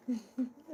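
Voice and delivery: short soft giggle; quiet amused laugh. Real, not acted. Laughing at herself.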